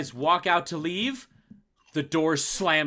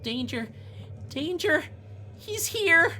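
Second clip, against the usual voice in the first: high, eerie warning voice; thin high otherworldly alarm; voice in their heads; 12 semitones higher than usual. Acted. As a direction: call the warning high, climbing higher with each phrase. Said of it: "all of you hear in your heads".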